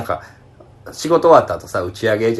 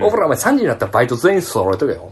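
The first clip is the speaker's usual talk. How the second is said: Yoshida's way of talking. Retold or imitated. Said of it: "こんな喋り方の".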